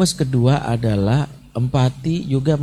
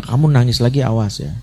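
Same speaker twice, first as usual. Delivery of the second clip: threatening scold. Retold or imitated.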